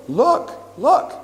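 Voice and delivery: put-on high, eager toddler voice calling look; little boy's voice. Toddler calling his dad to look, high and eager. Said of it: "I hear his little voice go".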